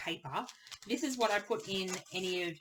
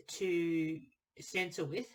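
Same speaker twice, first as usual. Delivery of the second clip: speaking mid-yawn; a yawn pulling at the words; much slower than usual. Real, not acted. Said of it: "Excuse the yawning".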